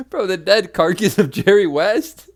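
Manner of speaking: loud, high disbelief; incredulous. Real, not acted. Cohost repeating his friend's absurd remark, loud incredulous laugh-shout.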